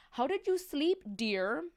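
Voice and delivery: queen's question. Acted. Queen asks again.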